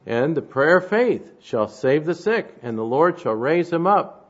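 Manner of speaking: emphatic scripture reading. Real, not acted. Preacher reads scripture aloud.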